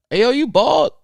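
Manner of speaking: high, loud surprised question. Retold or imitated. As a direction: blurt it out in disbelief. Quoting surprised people.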